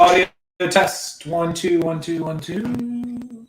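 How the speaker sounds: popping, breaking-up line; choppy call audio cutting out; glitchy robotic call. Real, not acted. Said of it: "Sound going in and out and popping".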